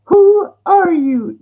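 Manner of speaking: high, slow, loud demand; emperor. Retold or imitated. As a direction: challenge him slowly. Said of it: "You know".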